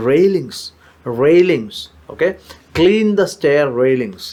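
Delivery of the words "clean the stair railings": slow model phrase. Shown as a demonstration. Teacher modelling a new word slowly for students. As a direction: stretch out each word of declutter the closet.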